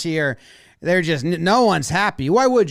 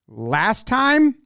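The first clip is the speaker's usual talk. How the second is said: "Last time?" pitched up as a baffled question; puzzled question; 5 semitones higher than usual. Retold or imitated. Catcher confused by the pitcher's sign, puzzled rising question. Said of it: "it looks to me like he says".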